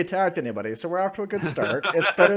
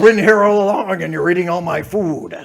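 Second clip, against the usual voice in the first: louder, gruff dog host; gruff scolding; 7 dB louder than usual. Acted. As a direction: bark the order to sit.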